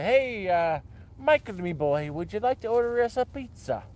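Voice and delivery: put-on a light Irish grandfather accent. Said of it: "he had a very thick Irish accent".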